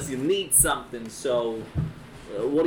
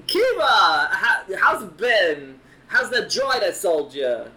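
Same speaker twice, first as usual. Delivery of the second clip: shopkeeper voice; 4 semitones higher, 5 dB louder than usual. Acted. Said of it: "is like".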